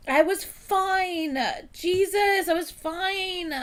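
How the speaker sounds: pleading through tears that you were fine; tearful. Real, not acted. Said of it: "gonna make me fucking cry".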